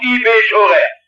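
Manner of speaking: "i bin schon recht" in light Swabian, falling and smug; Swabian saying. Shown as a demonstration. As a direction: quote the Swabian phrase with a content shrug. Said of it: "Das ist doch schwäbische Weltanschauung". ("i bin schon recht" leicht schwäbisch, selbstzufrieden fallend)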